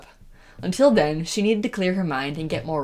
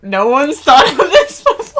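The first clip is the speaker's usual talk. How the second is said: sarcastic; 8 semitones higher, 10 dB louder than usual. Pretend. Mocking Kira's idea.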